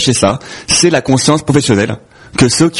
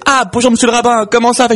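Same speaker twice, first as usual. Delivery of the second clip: high, sing-song joke hello; exaggerated polite greeting; 8 semitones higher than usual. Two fathers greet the rabbi in a joke, exaggerated greeting. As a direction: pitch the hello up like a comic character.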